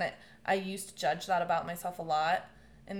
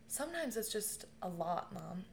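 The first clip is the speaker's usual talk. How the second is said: much softer, tender words to mom; soft, tender confiding; 9 dB quieter than usual. Retold or imitated. Holding her dying mom's hand, softly confiding. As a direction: ease it out gently, almost under the breath.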